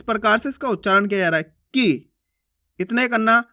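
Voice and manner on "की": की with a brief "i"; short vowel. Shown as a demonstration. Teacher showing exactly how little time short i takes, brief. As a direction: keep की short. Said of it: "इसका उच्चारण में कम समय लगता".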